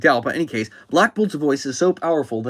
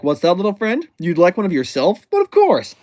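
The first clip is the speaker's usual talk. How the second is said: put-on higher, livelier voice for a villain coaxing a child; playful put-on generosity; friendly villain; 4 semitones higher, 5 dB louder than usual. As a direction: offer it brightly, jumping high on the last phrase. Villain kindly offering child a balloon.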